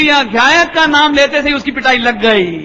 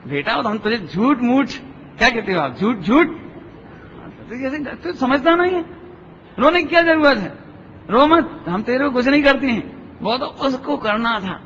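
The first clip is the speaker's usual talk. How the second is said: gentle mother. Retold or imitated. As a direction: soothe the child gently, mother to son. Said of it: "समझाती मां धीरे से". (धीरे से समझाती माँ)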